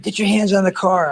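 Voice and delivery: cop's command. Retold or imitated. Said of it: "And they said".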